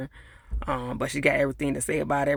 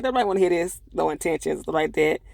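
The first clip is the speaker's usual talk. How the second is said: annoyed; 3 semitones higher than usual. Retold or imitated. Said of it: "she was getting on my nerves".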